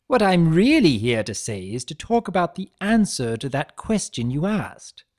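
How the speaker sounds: loud, high, slowed showman hello; cheery trickster greeting. Acted. Chaos spirit gleefully greeting his betrayer, loud and high. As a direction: greet him like a long-lost pal, overdone. Discord voiced in story.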